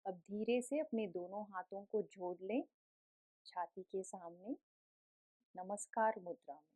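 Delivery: gentle, softened guiding voice with long pauses; guided meditation. Real, not acted. Yoga teacher settles the class into breath awareness, calm meditative guiding.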